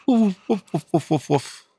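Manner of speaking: high, yappy dog barks; puppy barks. Acted. Puppy Peppy greeting the player, high excited yapping. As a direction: bark like an eager little puppy.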